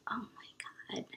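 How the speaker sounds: breathless, unvoiced whisper; shocked whisper. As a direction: whisper it in disbelief. Stunned whispered reaction.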